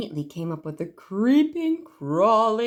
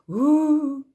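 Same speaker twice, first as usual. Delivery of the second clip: disappointed ooh; 6 semitones higher, 5 dB louder than usual. A narrator's reading. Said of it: "a chorus of".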